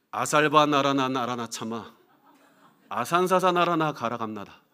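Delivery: put-on gibberish babble. Retelling a senior's demonstration of speaking in tongues; mock speaking in tongues. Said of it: "방언 흉내라도 내라는 거예요. 그러면서 방언 시범을 보이는 겁니다".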